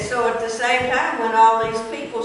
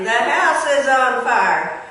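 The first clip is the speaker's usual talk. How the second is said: raised voice calling out an alarm; said loudly; 3 semitones higher, 5 dB louder than usual. Retold or imitated. Schoolchild alerting the class to fire, loudly. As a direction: call it out to the whole class. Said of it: "A classmate said loudly".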